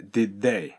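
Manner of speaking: "did they" run together, the first D swallowed; linked sounds. Shown as a demonstration. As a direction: let the D of did melt into they. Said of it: "theが前のDを飲む形で".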